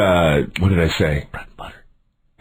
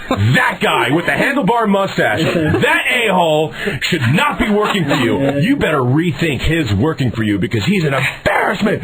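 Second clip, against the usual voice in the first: emphatic, raised-pitch denunciation; acted indignation; 5 semitones higher than usual. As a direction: re-enact an irate customer denouncing the culprit. Acted complaint to manager about employee.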